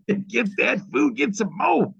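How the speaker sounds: high, slow laughing egg-on; laughing mock cheer. Host egging on his team, laughing. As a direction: cackle them on to grab food.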